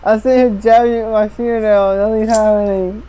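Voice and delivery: numb lips, slurred speech; after wisdom teeth. Real, not acted. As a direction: speak with a numb mouth. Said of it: "He can't talk 'cause his lips are numb".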